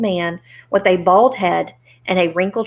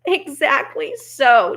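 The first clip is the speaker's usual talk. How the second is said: slow, higher-pitched pleased agreement; 7 semitones higher, 3 dB louder, slower than usual. Acted. Little man gladly admits it, pleased. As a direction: agree slowly, with relish. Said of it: "as if it pleased him".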